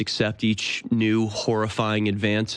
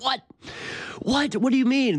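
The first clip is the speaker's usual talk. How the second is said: put-on kid's disbelief; 12 semitones higher than usual. Kids hearing about the TV.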